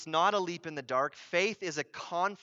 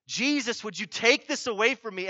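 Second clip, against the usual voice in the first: earnest plea, pitched up; pleading; 4 semitones higher, 4 dB louder than usual. Retold or imitated. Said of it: "he pleaded".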